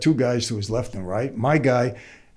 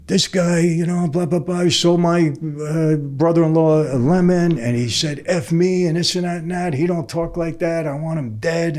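pitched-up, agitated retelling of a mobster's rant; mock angry rant; 4 semitones higher than usual. Mario complaining to Mike about Jerry, raised agitated rant. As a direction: play the aggrieved mobster, worked up but retold. Mob boss ranting about brother-in-law.

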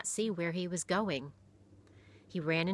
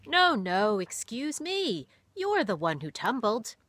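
higher, louder, slow kind protest; kindly pastor; 5 semitones higher, 6 dB louder than usual. A narrator's reading. Pastor insisting the fault was his, kindly. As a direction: fuss over the boy like a gentle pastor. Pastor apologizes, voiced figure.

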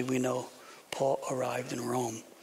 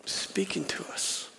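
whisper; 4 dB quieter than usual. Real, not acted. Preacher whispers for emphasis.

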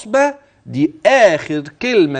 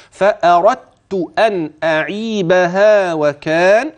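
slow chanted recitation; slow Quranic recitation; much slower than usual. Shown as a demonstration. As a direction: chant the phrase with long vowels. Recites the verse.

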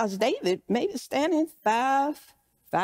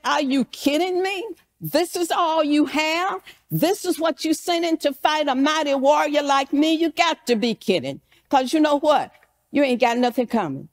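higher-pitched offended disbelief, mildly acted; insulted, upset; 4 semitones higher than usual. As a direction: play an affronted warrior scoffing at the challenger. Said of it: "He was mad. He was upset".

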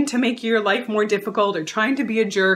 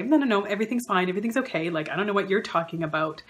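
defensive denial; faster than usual. Retold or imitated. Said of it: "they'll say".

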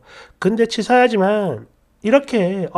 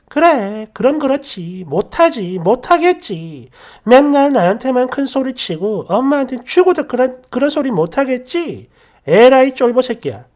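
taunting; 2 semitones higher than usual. Retold or imitated. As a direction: scrape at his pride. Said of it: "약을 좀 올리고 자존심을 팍팍 긁었더니". (비웃으며 약 올리듯)

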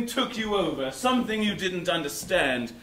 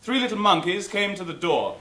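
nursery rhyme; 3 semitones lower than usual. Acted. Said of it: "a simple child's rhyme".

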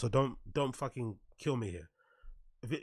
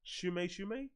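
high mocking name; 5 semitones higher, 10 dB quieter, slower than usual. Shown as a demonstration. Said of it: "Is that racist if I do that?".

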